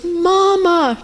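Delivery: high, drawn-out imitated call; re-enacted high plea; girl crying out for mama. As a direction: imitate a girl reaching for her mother. Voices the girl's cry to her.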